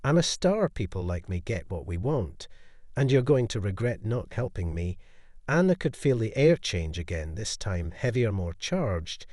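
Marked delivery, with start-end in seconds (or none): 0.0-5.0 haughty disdain. Acted. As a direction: lord it over her. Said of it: "dripping with a hint of disdain".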